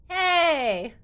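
loud startled hey; shocked outburst; surprised. Real, not acted. Surprised by name on screen.

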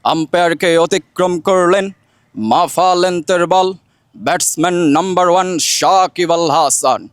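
slow, measured radio cricket commentary; formal, projected commentator delivery; Chowdhury Jafarullah Sharafat. Shown as a demonstration. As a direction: commentate ball by ball, stretching each phrase. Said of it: "Chowdhury জাফরুল্লাহ শারপাত স্যারের কণ্ঠে যে বাংলাদেশের ধারাভাষ্যকার".

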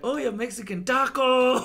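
high mock shout, exploding on the last word; retold yell. Retelling a man's remark to a Mexican friend, yelled. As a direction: imitate someone blurting it right in a face. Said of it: "blatantly yelled "taco" in her face".

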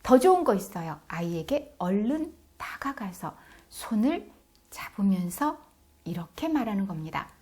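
ordinary delivery

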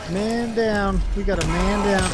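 loud, high callout; man down shout. Pretend. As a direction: call it out like a soldier. Calling out in game.

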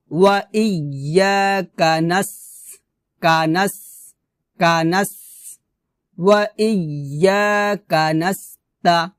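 measured chanting for students to repeat; Quran recitation demo. Shown as a demonstration. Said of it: "আমার সাথে বলেন".

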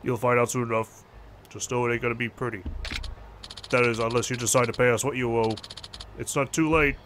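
low-pitched debt collector; low, threatening phone caller; menacing loan shark. Acted. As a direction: lean on them for the money, pitched low.

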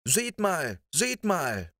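put-on high, eager child's call; Lissy calls the others to look, high and eager; excited calling. A narrator's reading. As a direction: point it out urgently. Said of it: "rief die kleine Lissy".

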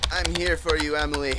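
firmer, fuller repeat of the reassurance; mock-earnest comfort. Player consoling Emily in the game, mock-earnest. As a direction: lean into the comfort with some drama.

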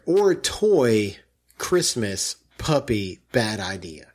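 each word set apart with pauses; mocking a run-on comment; choppy reading. Shown as a demonstration. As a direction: read it broken, word by word, no periods. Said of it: "Let me read you the sentence again".

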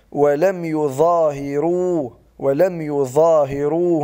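ولم يظاهروا slow, every letter placed; slow model of ولم يظاهروا; correct reading. Shown as a demonstration. Teacher models ولم يظاهروا correctly. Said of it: "بل".

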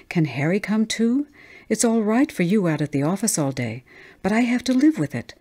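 mounting exasperation, ending on a high pitch; exasperated outburst. Acted. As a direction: pour out the complaint item by item.

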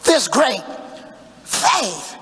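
rising preacher's call; full-force preaching. Acted. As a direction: preach it up to the congregation. Preacher voicing God, shouting.

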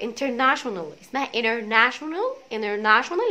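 انترناشونال said as enernational, t dropped after n; American international. Shown as a demonstration. Teacher contrasting the spelling with American انترناشونال. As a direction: drop the t in انترناشونال. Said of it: "عايز تكون مور امريكان".

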